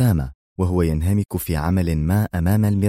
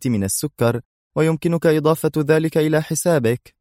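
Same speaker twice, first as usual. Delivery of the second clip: sarcastic; 6 semitones higher than usual. Acted. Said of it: "ابتسامته الساخرة".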